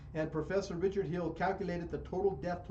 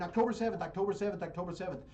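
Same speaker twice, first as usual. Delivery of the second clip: mocking repetition; 3 semitones higher, faster than usual. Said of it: "that's their talking point".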